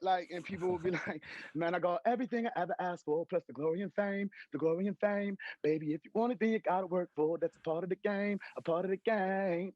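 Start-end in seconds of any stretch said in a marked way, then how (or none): 1.5-9.7 rapped bars with a light Australian accent; a hint of Australian in the rap flow; slight Australian accent. Shown as a demonstration. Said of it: "rapping with this Australian accent, slight".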